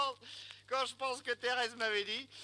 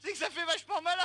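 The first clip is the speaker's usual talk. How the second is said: laughing; 6 semitones higher, faster than usual. Real, not acted. Laughing about his bent back.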